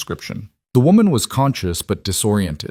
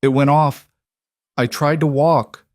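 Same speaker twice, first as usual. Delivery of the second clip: put-on raspy Italian accent; 6 semitones higher, 3 dB louder than usual. A narrator's reading. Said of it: "The woman's voice was raspy, accented".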